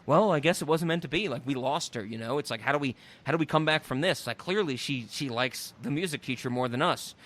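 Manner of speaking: low, softened, resigned grumble; dejected. Retold or imitated. Four kids sitting on the stoop, dejected. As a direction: imitate kids mildly down in the dumps. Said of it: "all four are down their luck".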